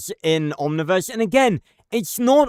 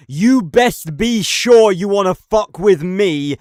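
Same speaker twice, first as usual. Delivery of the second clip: menacing villain quote; 2 semitones higher, 6 dB louder than usual. Retold or imitated.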